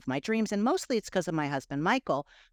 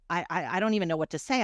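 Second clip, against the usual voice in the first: mildly flustered, quick stammer; a touch of nervous hesitation; retold chickening out; faster than usual. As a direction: stumble on the first word, then hurry on. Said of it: "I'm, like, chickening out".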